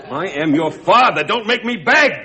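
pleading rising to a high, loud cry; desperate plea. Acted. Father on the phone to his estranged son, pleading loudly. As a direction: push hard, begging the son not to refuse.

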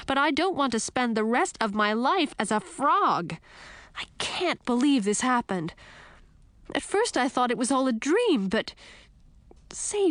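high, fretful princess voice; upset princess. Acted. Princess turned frog pressing Frog for help, high and upset. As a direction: voice a distressed princess, pitched high.

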